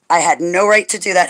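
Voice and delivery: hushed unvoiced whisper of repentance; whispered confession. Real, not acted. Confessing to Abba in prayer, whispered. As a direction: breathe it out as a whisper.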